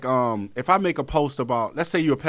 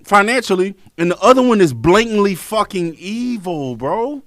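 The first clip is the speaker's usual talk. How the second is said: shouting rant; 6 semitones higher, 8 dB louder than usual. Real, not acted. Ranting to his co-host about good versus evil, shouting. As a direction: preach it with full fury.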